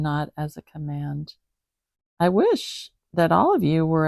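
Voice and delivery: measured, even scripture reading; Bible reading. Acted. Reading First Corinthians aloud to the cat. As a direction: read it out steadily like a lesson.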